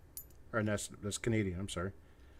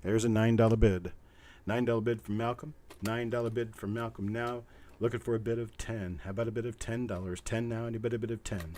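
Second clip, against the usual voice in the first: auctioneer bid-calling. Real, not acted. Auctioneer seeking ten after Malcolm's bid, steady chant. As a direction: announce the bid, then chant for the next. Announces bid, asks for more.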